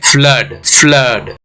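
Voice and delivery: फ्लड with an 'uh' vowel; 'अ' vowel demo. Shown as a demonstration. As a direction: say फ्लड with 'uh', not 'oo'. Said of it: "अ का sound create कर रहा है". (फ्लड में 'अ' की आवाज़)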